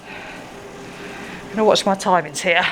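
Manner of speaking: talking between slurps of a drink; words around a sip; slurping. Real, not acted. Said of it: "Excuse the slurping, team".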